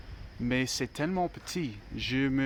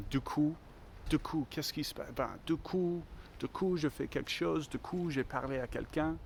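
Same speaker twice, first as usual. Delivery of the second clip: higher-pitched take on a French host brother; imitating host brother; 4 semitones higher, 4 dB quieter than usual. Quoting a host brother's typical European French phrases, lightly imitated. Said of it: "mon frère d'accueil m'a dit souvent".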